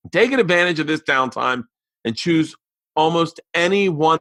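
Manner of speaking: lifted, upbeat sales pitch; sponsor ad read. Real, not acted. Host listing free gifts from the sponsor, upbeat ad read. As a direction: sell the offer to listeners.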